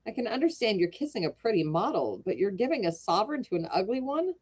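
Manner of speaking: lively read-aloud storytelling with voiced characters; reading a classic tale to a live audience; story narration. A narrator's reading. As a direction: tell it like a bedtime storyteller. Reads Wilde story aloud.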